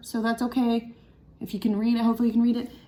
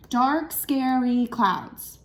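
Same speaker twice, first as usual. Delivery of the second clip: slow syllable count; slower than usual. Shown as a demonstration. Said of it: "that's only four syllables".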